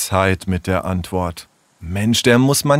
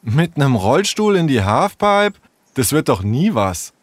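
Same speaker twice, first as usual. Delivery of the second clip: doubting surprise; 5 semitones higher than usual. Acted. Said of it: "Überrascht starrte Sarah".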